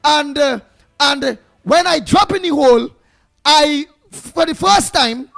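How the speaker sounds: mock boss man caller. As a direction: play the boss man phoning in to complain, hammed up. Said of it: "boss man will call in".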